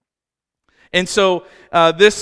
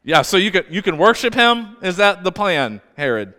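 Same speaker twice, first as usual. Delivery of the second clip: doubtful, needling question; sceptical teasing. Real, not acted. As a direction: call out an obvious lie. Preacher mocks Herod's claim.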